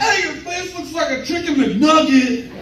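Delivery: slow, high line breaking into laughter; laughing pickup line. Retold or imitated. Comic hitting on a girl with a nugget line, laughing. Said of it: "I'm like".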